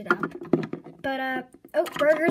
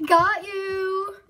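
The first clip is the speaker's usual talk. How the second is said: triumphant reveal; 4 semitones higher, 7 dB louder than usual. Acted. Revealing the prank.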